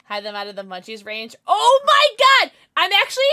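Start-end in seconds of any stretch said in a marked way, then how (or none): 1.5-3.2 surprised. Real, not acted. Surprised outburst while streaming.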